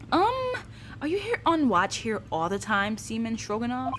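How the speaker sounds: ordinary talk, nothing marked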